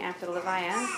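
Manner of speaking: choking up on the words; real crying. Real, not acted. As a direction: voice catching on a sob. Retelling morning after husband's funeral.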